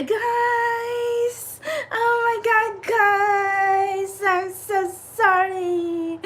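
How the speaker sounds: put-on her old livestream voice. Vlogger imitating her old self greeting livestream viewers, high and drawn-out. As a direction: gush the sorry out high and drawn, almost whimpering. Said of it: "But I still talk like that anyway".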